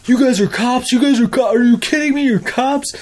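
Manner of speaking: high, incredulous squeal of shock; high-pitched, stunned "you're cops?"; shocked disbelief. Retold or imitated. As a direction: act out the kids' stunned disbelief. Kids shocked they're cops.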